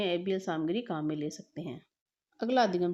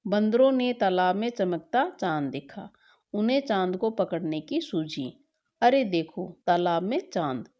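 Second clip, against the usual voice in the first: put-on reading a story to children. Teacher reads the class story.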